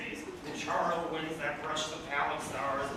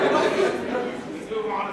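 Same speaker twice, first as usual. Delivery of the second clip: laughing through it; 5 semitones higher, 9 dB louder, much slower than usual. Real, not acted. Still laughing, moving on.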